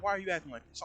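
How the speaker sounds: complaining customer. Retold or imitated. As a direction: imitate an upset customer's protest.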